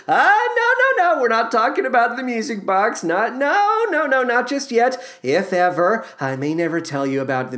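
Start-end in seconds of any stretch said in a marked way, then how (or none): 0.1-5.1 a hint of a higher, flustered husband; lightly voiced Dan. Husband dodges wife's question, lightly flustered. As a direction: brush her off, lightly acted.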